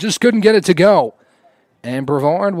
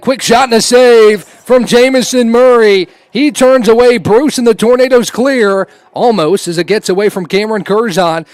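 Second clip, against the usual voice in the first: excited; 3 semitones higher, 4 dB louder than usual. Real, not acted. Play-by-play on a save.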